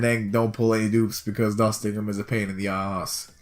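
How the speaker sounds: lightly put-on Irish accent; grumbling in an Irish accent. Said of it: "now I'm doing the Irish accent".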